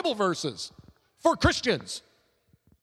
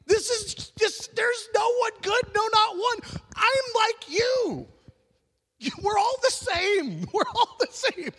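much higher, mocking confessional tone that breaks into a laugh; 12 semitones higher than usual. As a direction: play it as a silly high-pitched voice, mocking self-righteousness. Mock humble confession, laughing.

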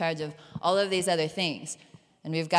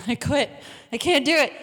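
laughing surrender; 8 semitones higher, 6 dB louder than usual. Retold or imitated. Giving up on hearing the Lord.

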